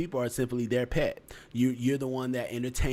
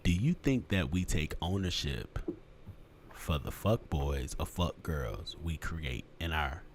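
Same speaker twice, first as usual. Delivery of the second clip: low, softer deep voice; deeper voice; 7 semitones lower, 6 dB quieter than usual. Real, not acted. Host asking the panel about taking ownership, in a deep voice. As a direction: ask it down in a deep register. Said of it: "I put my voice deeper".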